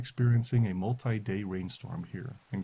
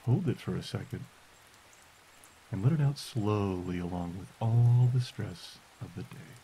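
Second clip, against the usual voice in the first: guided meditation. Acted. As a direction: guide them gently into stillness. Leads a listening meditation.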